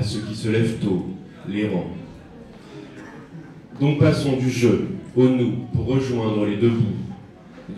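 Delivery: spoken-word poem, measured phrases with pauses between lines; poem recitation. Acted. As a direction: recite it as your own poem to an audience. Récite son poème sur scène. (récitation de poème, façon slam posé)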